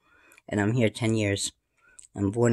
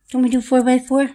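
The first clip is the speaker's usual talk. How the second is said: squeaky higher question; 14 semitones higher, 7 dB louder than usual. Acted. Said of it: "repeat higher".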